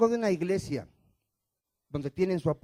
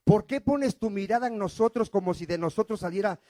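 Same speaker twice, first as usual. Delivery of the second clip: apostle Paul's humble plea. Retold or imitated. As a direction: plead as a lowly servant. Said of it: "Dice el apóstol Pablo".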